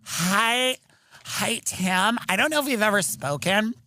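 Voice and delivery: agent voice. Retold or imitated. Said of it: "They're like".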